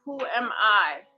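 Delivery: "am" stressed in the middle of the question. Shown as a demonstration. Demonstrating the second time of the question, stress on "am". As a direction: slowly lean on the word "am". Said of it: "put the emphasis on a different word".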